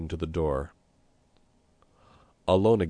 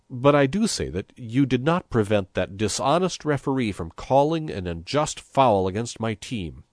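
indignant; 5 semitones higher, 4 dB louder than usual. Acted. Priest angry about referee.

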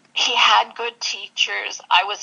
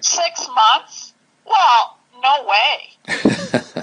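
incredulous refusal; 4 semitones higher, much slower than usual. Retold or imitated. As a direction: balk at the very idea, pitch jumping up. Incredulous refusal of waiting list.

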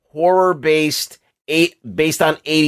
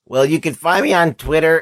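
voice cracking. Real, not acted. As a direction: voice cracks mid-sentence. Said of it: "and my voice cracked".

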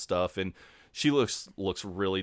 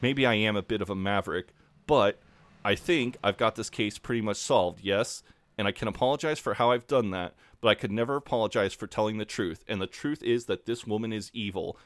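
over-the-top monologue. Retold or imitated. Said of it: "Robert Webb plays it so well. He's completely over the top".

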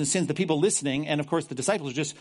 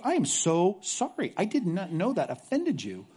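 mock apology. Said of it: "Look at verse sixty-two".

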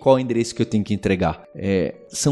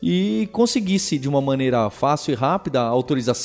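ad read; 3 semitones higher than usual. Acted. Sponsor ad reads.

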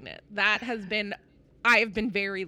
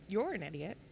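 softer, muttered under the breath; a quiet aside of You're an idiot; said quietly to myself; 4 semitones lower, 8 dB quieter than usual. Retold or imitated. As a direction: mutter it to yourself so no one hears. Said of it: "very quietly to myself".

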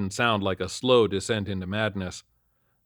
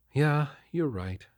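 slow, higher, brushing it off; dismissive; 5 semitones higher, slower than usual. A narrator's reading. Wife conceding to husband with a slow dismissive sigh. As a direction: wave the point away lightly. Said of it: "she dismissed".

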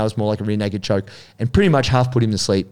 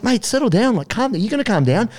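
higher, coaxing; mock calming; 10 semitones higher than usual. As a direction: talk a brawler down. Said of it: "I was like".

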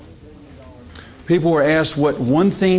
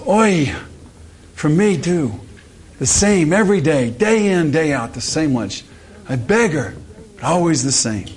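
hammed-up Jewish man; 4 semitones higher than usual. Jewish character in joke.

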